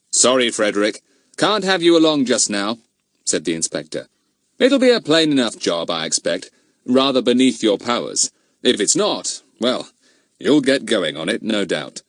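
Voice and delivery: lightly voiced kindly inspector; firm but friendly; inspector refusing. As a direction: inspector turning Fatty down.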